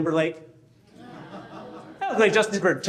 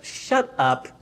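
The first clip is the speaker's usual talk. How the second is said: wife's voice; slower than usual. Retold or imitated. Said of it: "She's like".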